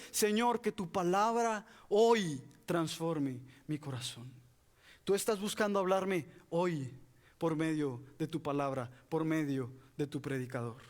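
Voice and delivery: low, slowing, hushed plea to God; earnest prayer. Acted. Preacher praying to the Lord before hearing the word, earnest prayer.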